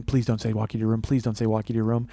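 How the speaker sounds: low, soft repeated pleading; muttered inner plea. Retold or imitated. Silently begging her to refuse the walk, low muttered plea. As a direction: plead under your breath, as a private thought.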